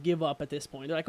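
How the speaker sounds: normal talking voice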